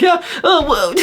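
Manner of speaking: very high, simpering fake modesty with a giggle; high, giggly put-on voice; mock humble voice. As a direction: parody false humility. Mocking fake humility.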